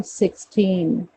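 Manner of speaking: "सिक्सटीन" with the "टीन" stretched; stress on TEEN. Shown as a demonstration. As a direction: lean on the end of "सिक्सटीन". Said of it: "ट पे stress ज्यादा दिया जाएगा".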